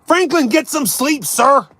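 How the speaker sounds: put-on playful British accent telling Franklin to sleep; mock British accent. Streamer teasing a British viewer to bed in a mock British accent. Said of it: "I appreciate the accent every time".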